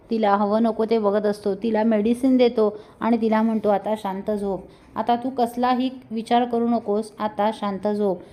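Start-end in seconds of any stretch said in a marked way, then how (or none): 3.7-8.2 tender and soothing. Acted. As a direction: gently soothe her to sleep. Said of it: "जीवा खूप प्रेमाने तिची काळजी घेत असतो". (प्रेमाने, हळू आवाजात झोपवणं)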